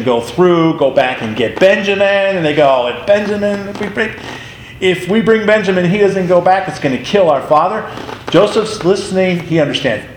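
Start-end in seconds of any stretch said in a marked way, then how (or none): 2.9-7.8 raised, anxious plea of the brothers; lightly voiced brothers fretting over losing their father; worried brothers. Brothers telling Joseph they fear for their father, mildly anxious.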